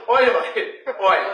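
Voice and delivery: ওয় with the h dropped, laughing; Sylheti pronunciation. Shown as a demonstration. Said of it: "আমরা কই". (সিলেটি উচ্চারণে ওয়, হ বাদ দিয়ে)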